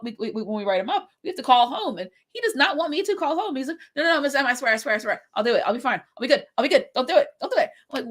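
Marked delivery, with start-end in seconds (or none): 4.0-7.7 pleading student. Retold or imitated. Student begs not to call home.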